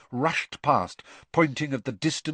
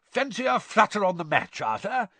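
higher, eager invitation to bet; 11 semitones higher, 3 dB louder than usual. A narrator's reading. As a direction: tempt a friend keenly. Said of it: "he said eagerly".

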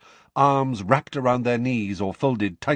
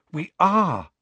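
assuring; 8 semitones higher, 4 dB louder than usual. A narrator's reading. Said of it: "Lavender assured her".

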